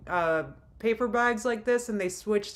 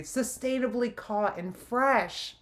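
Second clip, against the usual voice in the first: mock reading of the label; 2 semitones higher, slower than usual. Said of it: "Amber saw that little seal and was like".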